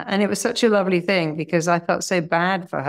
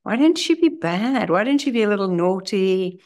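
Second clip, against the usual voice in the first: playful coaxing; 2 semitones higher than usual. Retold or imitated. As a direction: egg her on to be a little wild. Playful challenge to patient.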